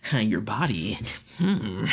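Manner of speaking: low lecherous murmur; mock creepy low voice with a hum; creepy admirer. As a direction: imitate a creep, dropping low. Imitates him being creepy.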